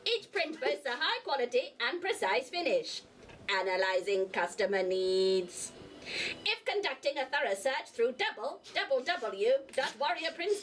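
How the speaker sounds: lightly done robot host voice. Acted. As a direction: announce it like a mild robot. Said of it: "I am your robotic host".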